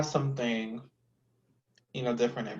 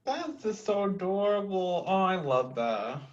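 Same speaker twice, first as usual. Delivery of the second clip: teary-eyed; 7 semitones higher than usual. Real, not acted. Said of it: "I'm getting teary-eyed".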